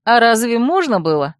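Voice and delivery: bright, lively question; cheerful. Acted. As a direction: ask merrily. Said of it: "весело ответила я". (весело)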